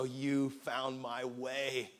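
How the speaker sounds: slow, soft and low, like Jesus welcoming someone home; a lightly voiced tender Jesus, drawn out; gentle Jesus voice. Pastor voicing Jesus greeting a woman in heaven, slow and soft. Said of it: "Jesus is gonna go".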